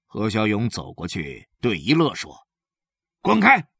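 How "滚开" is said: loud angry bark; gruff "get lost". Acted. He Xiaoyong driving Yile away, loud and angry. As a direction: shove him off with one word.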